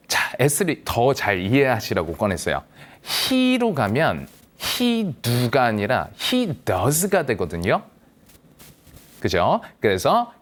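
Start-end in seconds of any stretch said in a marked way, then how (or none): none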